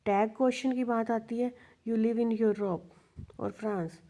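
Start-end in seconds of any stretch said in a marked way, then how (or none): 1.9-2.8 You live in Europe said with the voice falling at the end; falling statement tune. Shown as a demonstration. Teacher shows a plain statement before the tag, falling tune. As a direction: let the pitch fall on Europe like a plain fact. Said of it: "ये simple statement है, यहाँ पे हमारी down में जाएगी".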